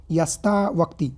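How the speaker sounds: slow, deliberate wrong form यस्ता वक्ति; wrong spelling said aloud. Shown as a demonstration. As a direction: sound out यस्ता वक्ति slowly as a mistake. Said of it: "ये तो होगा नहीं".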